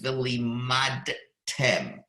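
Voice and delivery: slow, deliberate V'limadtem with each syllable drawn out; slow recitation of V'limadtem; careful Hebrew reading. Shown as a demonstration. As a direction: read "V'limadtem" slowly, syllable by syllable. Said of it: "the Shema says".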